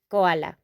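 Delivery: teacher repeating koala; Spanish pronunciation. Shown as a demonstration. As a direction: echo koala gently. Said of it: "It's like the same".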